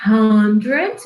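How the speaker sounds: hundred with the h sounded like a Portuguese R. Shown as a demonstration. Teacher to students, showing how the h in hundred sounds. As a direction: say hundred with a breathy, R-like h. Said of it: "o H tem som de R".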